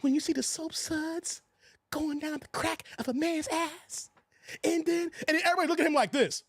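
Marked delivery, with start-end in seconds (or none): 0.0-4.1 softer, slow and hesitant, a faint quiver; hint of a nervous man's trembling voice; lightly imitating a shaky, timid delivery. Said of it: "Dude's voice was quivering".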